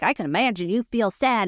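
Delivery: irritated mock empathy; getting mad. Shown as a demonstration. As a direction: say the sympathy with impatient, annoyed emphasis. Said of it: "and I'm getting mad".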